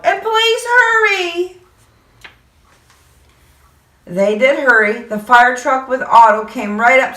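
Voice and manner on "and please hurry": high, slow pleading; urgent child. Acted. Boy urges firemen, high slow plea. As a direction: beg them to hurry. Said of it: "I yelled".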